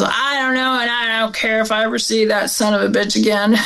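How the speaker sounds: bitter mother. Retold or imitated. Mother brushing off her brother, bitter and scornful. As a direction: spit out the old grudge quickly.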